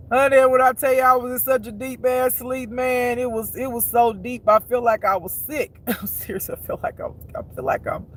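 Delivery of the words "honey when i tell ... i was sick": excited. Real, not acted. Excited storytelling.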